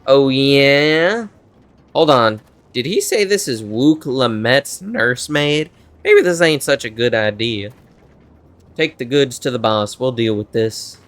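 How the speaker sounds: lightly put-on country bandit accent; attempted Texas accent. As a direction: try a Texan outlaw, not quite landing it. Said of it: "Trying to do Texas or, like, country".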